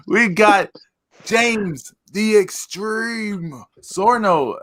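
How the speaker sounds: high, drawn-out ring announcer; announcer intro. Acted. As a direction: introduce him like a wrestler. Introducing the co-host.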